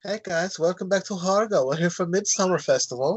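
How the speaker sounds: vlogger greeting in a put-on German accent; chirpy YouTuber intro, German-sounding. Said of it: "I don't know why I sound German".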